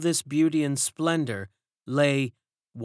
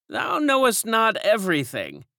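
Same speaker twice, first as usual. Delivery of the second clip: put-on raised, knowing old woman's voice; old servant woman; 9 semitones higher, 4 dB louder than usual. A narrator's reading. Old servant hints at secrets, raised and knowing. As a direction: speak as one who knows more. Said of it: "said an old woman".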